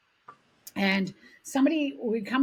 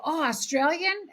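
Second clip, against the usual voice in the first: drawn-out, higher questioning "Oh, Australian?"; retold surprised question; 7 semitones higher, slower than usual. Other Greeks asking the teller if she's Australian, mildly surprised. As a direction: imitate curious strangers, pitch lifting at the end.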